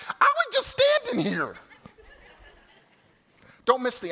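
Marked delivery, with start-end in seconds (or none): 0.1-1.5 innocent bystander. Retold or imitated. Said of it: "the crowd is just like".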